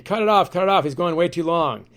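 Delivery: a producer barking in his ear, mock urgent; mild mock yell to cut the feed.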